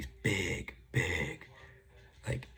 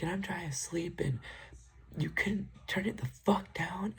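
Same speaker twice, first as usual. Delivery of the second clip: mocking whisper; 14 semitones higher than usual. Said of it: "I'm like".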